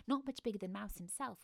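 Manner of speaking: usual speaking voice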